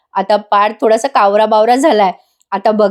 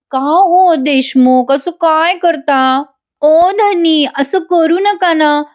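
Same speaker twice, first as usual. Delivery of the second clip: drawn-out, higher, sing-song plea to her husband; coaxing wife; 5 semitones higher, much slower than usual. Acted. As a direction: plead sweetly and slowly, stretching each word. Kavya coaxes husband, serial dialogue. (लाडिक, हळू, ताणून बोललेली विनवणी)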